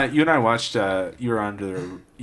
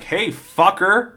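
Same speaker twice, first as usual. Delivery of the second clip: higher, drawn-out call-out; mock police challenge; 7 semitones higher, much slower than usual. Cop to crashed driver, mock confrontational holler. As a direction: slowly holler it as a retold cop.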